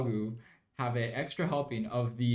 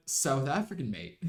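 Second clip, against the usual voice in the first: South African accent. Shown as a demonstration. Streamer showing how their accent slipped, South African accent. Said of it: "my accent just went".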